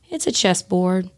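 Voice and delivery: imitating a slow, chill talker; slow it down, as a man of few words. Inmate painter answering a curious visitor, slow and chill. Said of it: "he spoke kinda slower and just".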